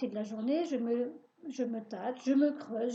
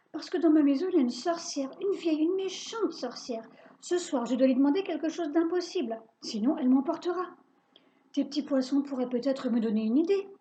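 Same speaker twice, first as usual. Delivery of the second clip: louder, rushed pleading; urgent; 3 semitones higher, 4 dB louder, faster than usual. Acted. Boy telling Bachir about the witch, urgent and louder. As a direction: get it all out fast.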